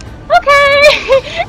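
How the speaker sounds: unimpressed okay. Retold or imitated. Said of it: "and I was like".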